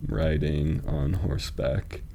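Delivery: murmured slow count through the line; syllable-counting reading. Shown as a demonstration.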